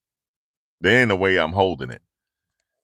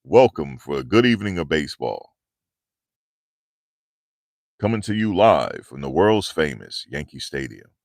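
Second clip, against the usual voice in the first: stadium announcer. Retold or imitated. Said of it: "He used to say that".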